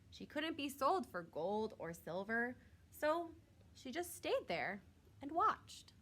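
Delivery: gentle storybook narration; reading to children. A narrator's reading. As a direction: read it like a bedtime story for kids.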